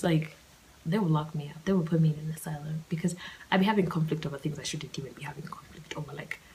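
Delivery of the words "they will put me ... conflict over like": whisper. Real, not acted. Confiding aside.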